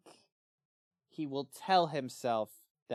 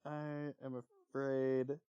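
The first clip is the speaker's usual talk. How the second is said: Henry's reply; 2 semitones higher than usual. Acted. Reading Henry's reply in role.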